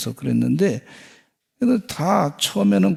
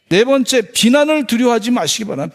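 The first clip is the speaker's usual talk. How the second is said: higher and louder, pushing fast into the point; forceful preaching; 6 semitones higher, 4 dB louder than usual. Acted. Preacher announcing the fourth point to the congregation, forceful and fast. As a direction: proclaim the new point to the whole congregation.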